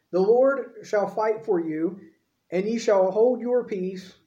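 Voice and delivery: declaiming, slowing at the end; scripture reading. Acted. Moses reassuring the people, declaimed and slowing. Preacher reads Moses' speech.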